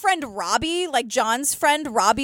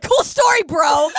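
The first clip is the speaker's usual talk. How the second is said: sarcastic shout; 2 semitones higher, 6 dB louder than usual. Retold or imitated. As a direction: shout it back mockingly. Sarcastic retort to the guest.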